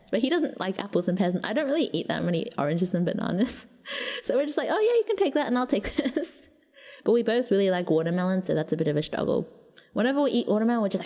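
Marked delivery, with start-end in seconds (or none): 4.7-6.4 agreeable sibling. Retold or imitated. Siblings amicably trade fruit.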